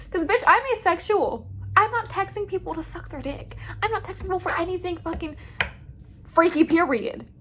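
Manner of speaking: high, sassy indignation; indignant rant. Real, not acted. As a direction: set the record straight, outraged. Indignant rant, much higher pitch.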